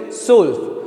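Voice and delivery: सोल्फ with a lightly fronted "o"; light umlaut. Shown as a demonstration. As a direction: model सोल्फ as German "zwölf". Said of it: "हल्की सी आवाज़ ऊपर होती है".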